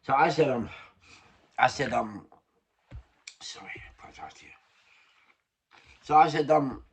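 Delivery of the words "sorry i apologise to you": fast, soft whisper; a hushed, hurried apology; whispered aside. Real, not acted. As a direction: whisper the apology quickly to the viewers. Quick aside to the viewers.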